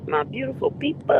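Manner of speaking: big lingering hello to the viewers. Real, not acted. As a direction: stretch "people" out long, rising. Drawn-out greeting to viewers.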